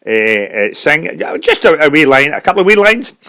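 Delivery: eager Scottish singer's brogue; Scottish accent. Acted. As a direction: offer a song in a halting Scottish accent. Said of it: "a Scottish singer".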